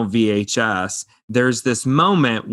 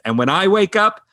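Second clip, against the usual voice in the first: mock exclamation; 8 semitones higher than usual. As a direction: call it out high, stretching the last words. Quotes film character exclaiming in flight.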